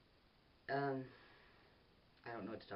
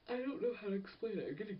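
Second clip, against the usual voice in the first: loud, much higher burst of frustration; exasperated outburst; 11 semitones higher, 6 dB louder than usual. Real, not acted. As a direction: throw up your hands in exasperation. Frustrated at own rambling.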